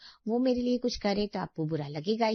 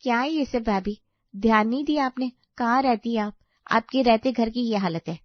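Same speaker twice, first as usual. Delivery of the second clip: louder, accusing telling-off; angry scolding; 5 dB louder than usual. Acted. Sister-in-law blames bhabhi for the mess, angry scolding. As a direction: scold her for not paying attention. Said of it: "आप मुझ पर इतना गुस्सा कर रही हैं".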